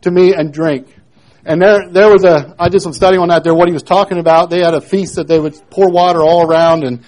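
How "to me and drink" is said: raised, higher voice calling out to the crowd; loud proclamation. Acted. Jesus calls out loudly to the crowd at the feast. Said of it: "and said in a loud voice".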